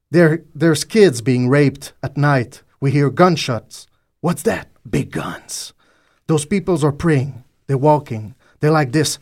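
slow, weighty recitation in English; dramatic poem recital in English; poem reading. Acted. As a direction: read it like a solemn spoken-word poem. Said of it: "cette mise en poème".

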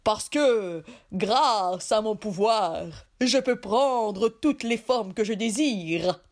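slow, boastful genie voice. Acted. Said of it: "répliqua le génie".

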